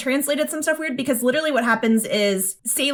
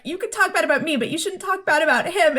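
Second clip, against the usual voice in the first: higher-pitched, mildly upset imitation; mock near-tears pleading, pitched up; retold tearful protest; 6 semitones higher than usual. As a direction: lightly act out a girl tearing up. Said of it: "sort of starts tearing up".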